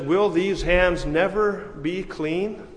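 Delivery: slow, drawn-out theatrical question; Lady Macbeth. Acted. Preacher voicing guilt-haunted Lady Macbeth, slow anguished question. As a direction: stretch out the question, rising at the end. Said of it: "And then she says".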